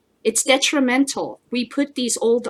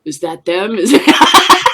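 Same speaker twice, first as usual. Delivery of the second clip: nervous Viking; 8 dB louder, slower than usual. Acted. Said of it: "listening to wolf howls".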